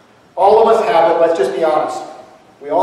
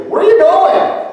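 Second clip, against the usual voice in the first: much higher, slow, baffled question; clueless Peter; 13 semitones higher, 5 dB louder, slower than usual. Acted. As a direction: ask like you missed everything. Peter missing the message, mocked.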